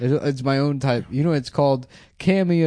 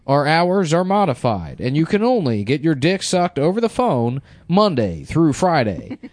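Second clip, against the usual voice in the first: recorded announcement voice; 4 semitones higher than usual. Pretend.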